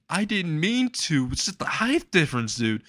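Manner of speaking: high-pitched, fretful voice; panicked apology. Retold or imitated. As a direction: plead in a worried squeak. Panicked apology after injuring his mentor.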